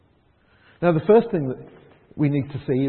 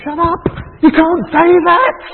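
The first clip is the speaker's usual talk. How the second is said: crowd silencing him; 12 semitones higher, 11 dB louder than usual. Retold or imitated. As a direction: bark them down, stretching the words. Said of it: "everybody's saying".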